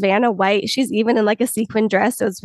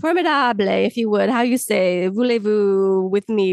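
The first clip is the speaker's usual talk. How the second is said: hammed-up fake French accent. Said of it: "fake French accent".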